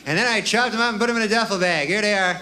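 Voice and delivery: lightly formal, dutiful report; mock devil's servant. Killer reports back to the devil, mildly mock-solemn. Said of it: "you go back to the devil".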